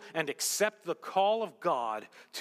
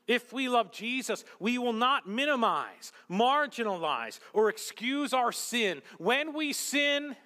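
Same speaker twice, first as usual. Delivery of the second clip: raised, loud-edged pulpit delivery; impassioned preaching; 6 semitones higher, 6 dB louder than usual. Acted. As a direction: press each phrase home to the congregation.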